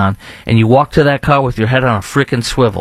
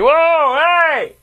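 high alarmed whoa hey; startled mock yelp. Host repeating his startled reaction at the range, high yelp. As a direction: jump back in alarm, high.

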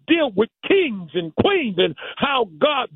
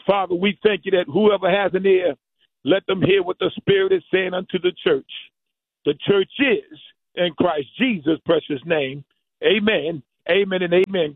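lower, steady prayer voice; 3 semitones lower than usual. Acted. Pastor praying over the church, lower and earnest. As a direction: pray to the Father for the church.

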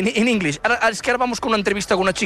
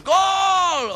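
high, commentator-style goal cry; drawn-out high cheer; goal shout; 8 semitones higher than usual. Shown as a demonstration. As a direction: sing out the goal like a football fan. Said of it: "sing the goals?".

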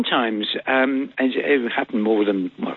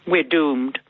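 C-3PO line. Shown as a demonstration. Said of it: "tell me what your favourite line is".

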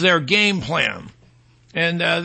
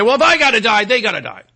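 indignant mock protest; 3 semitones higher, 4 dB louder, faster than usual. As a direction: burst out in mock resentment. Spiteful informer's quote acted out.

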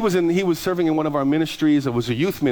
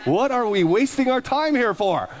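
mock dread; 4 semitones higher, slower than usual. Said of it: "I was like".

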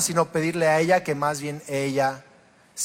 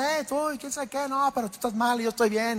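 hablar fuerte; 8 semitones higher, 6 dB quieter, faster than usual. Retold or imitated. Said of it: "en donde nos hablamos, pues, fuerte".

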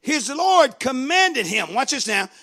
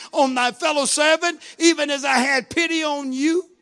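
indignant lord scolding a servant; angry rebuke; 3 semitones higher than usual. Acted. Lord scolds the servant he forgave, angry. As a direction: rebuke with mounting, stammering indignation. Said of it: "was angry".

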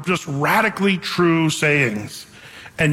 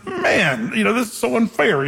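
mock indignation; 4 semitones higher than usual. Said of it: "I just remember feeling like".

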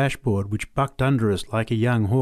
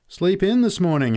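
teasing; 10 semitones higher, 6 dB louder than usual. Acted. Pat chipping late bloke.

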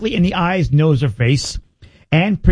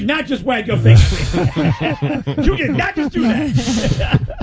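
sassy; 6 semitones higher, slower than usual. Pretend. Sassy tiger reply, laughing.

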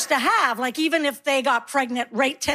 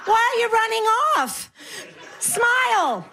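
higher, giggling mock deaf grandma; pretend deaf granny; 7 semitones higher than usual. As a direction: squeal it out laughing like a batty old lady. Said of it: "what I do is I pretend I'm deaf".

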